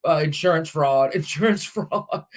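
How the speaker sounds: chuckling through insurance fraud; laughing tease. Retold or imitated. Son jokes to his sister about the fire, chuckling. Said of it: "he'll say".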